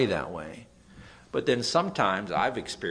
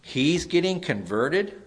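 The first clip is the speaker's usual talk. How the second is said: mock jeering yell; 7 semitones higher, 6 dB louder than usual. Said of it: "they screamed at him".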